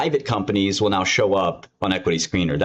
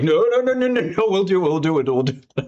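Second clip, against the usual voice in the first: high-pitched, frantic pleading that eases off; mock panic; 9 semitones higher than usual. Programmers pleading to keep boss out of code base, mock panic. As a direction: imitate programmers begging, hammed-up and rapid-fire. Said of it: "the programs are all like".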